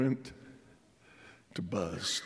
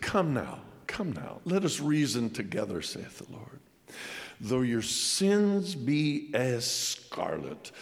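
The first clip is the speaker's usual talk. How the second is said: scripture reading. Acted. Reads scripture aloud.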